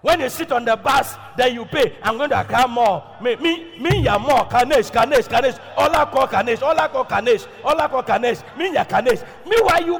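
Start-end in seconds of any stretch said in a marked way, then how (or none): 2.0-9.3 louder trotro mate calling stops; bus mate calling out. Retold or imitated. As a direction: call out destinations like a bus conductor. Imitates bus mate calling passengers.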